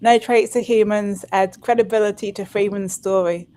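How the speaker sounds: put-on lightly done London accent. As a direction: read it in a London accent, gently. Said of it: "I'm trying to do a, la-, a London accent".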